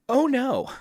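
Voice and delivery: high-pitched, hammed-up dismay; mock dismay. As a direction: react to bad news in a put-on high voice. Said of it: "And I'm like".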